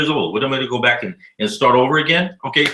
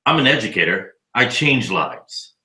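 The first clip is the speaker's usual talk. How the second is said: mock pompous; 4 semitones lower than usual. Mocking the doctor's line back.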